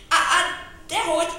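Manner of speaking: startled. Acted. Officer denies calling bear fat, flustered laugh. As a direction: take it back in a fluster. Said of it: "ijedt meg az alőrmester".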